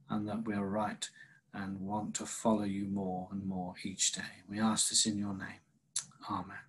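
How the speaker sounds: measured, reverent public prayer. Real, not acted. Pastor leads the congregation in opening prayer, prayerful.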